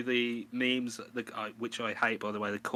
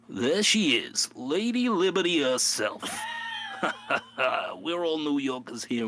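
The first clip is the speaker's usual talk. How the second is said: loud, higher hammed-up New York accent announcing; 4 semitones higher, 5 dB louder than usual. Showing dad the Statue of Liberty in hammed-up New York accent. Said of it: "that's where the New York voice started".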